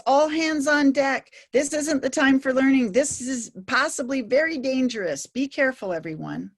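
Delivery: voicing the brain's alarm, all hands on deck; amygdala sounding the alarm. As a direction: sound the alarm like a ship's officer. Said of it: "The amygdala basically says".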